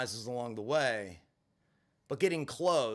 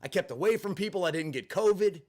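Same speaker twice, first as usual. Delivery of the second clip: retold angry rant, a bit raised; venting outrage at the unfairness; mild furious rant; 4 semitones higher than usual. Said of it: "And I'm furious".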